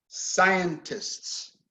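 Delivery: "Scientists" stressed on SCI, the rest falling away; first-syllable stress. Shown as a demonstration. Teacher shows students the word's stress, first syllable stressed. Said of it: "Stress on the first syllable".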